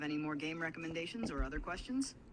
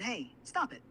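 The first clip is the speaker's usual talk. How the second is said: higher, louder mock protest; acting tickled; 6 semitones higher, 5 dB louder than usual. Assistant repeating the tickle act, mild mock protest. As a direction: pretend protest with no laughter. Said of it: "I want you to go".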